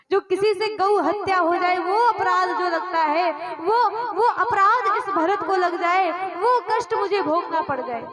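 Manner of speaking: impassioned oath. Acted. Bharat swears innocence to mother Kaushalya, impassioned oath.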